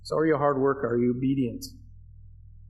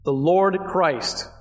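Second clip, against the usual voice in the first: "Lord" drawn out slowly and firmly; slow, deliberate stress on "Lord"; emphatic LORD; 2 semitones higher, much slower than usual. Shown as a demonstration. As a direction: say it at half speed, landing hard on "Lord". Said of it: "A little bit more emphatic".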